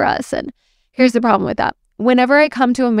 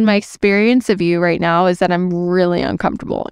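calm ownership. Shown as a demonstration. Coach showing the calm wording to a rude client, steady. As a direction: state it calmly as your own feeling. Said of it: "I said".

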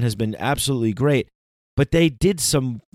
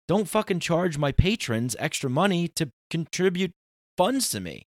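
higher, exasperated scolding; exasperated rant; 7 semitones higher than usual. Retold or imitated. Pleading with Patreon not to charge patrons, higher exasperated rant. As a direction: scold them with pitch up high. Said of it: "I was saying".

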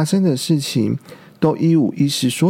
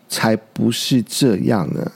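retorting; 5 semitones lower than usual. Acted. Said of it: "其他的甲龙宝宝反驳着说".

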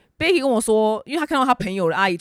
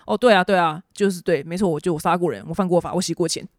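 mock honest criminal. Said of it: "老实的跟你说".

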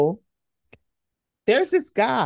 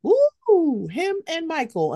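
high, delighted coo; admiring the actor, pitched up; swooning; 7 semitones higher, slower than usual. Retold or imitated. Fan reacting to actor beside Michael, high delighted coo. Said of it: "And it's like".

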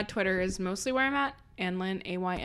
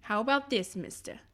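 put-on Jersey accent; 4 dB quieter than usual. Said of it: "test out your Jersey accent".

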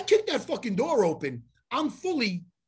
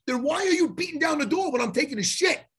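raised, higher-pitched angry challenge; exasperated retort; 5 semitones higher than usual. Retold or imitated. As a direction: demand an answer, fed up. Acted argument with stall knocker.

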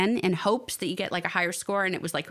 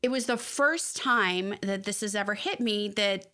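holding back tears; 3 semitones lower than usual. Real, not acted. A mother telling friends her son's childhood is over, tearful. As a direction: fight the tears as you say it. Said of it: "I'm gonna start crying".

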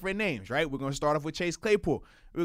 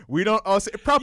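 loud mock-British protest; playful British impression; British accent; 6 dB louder than usual. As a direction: imitate an indignant Brit, hammed up. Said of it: "people over across the pond like".

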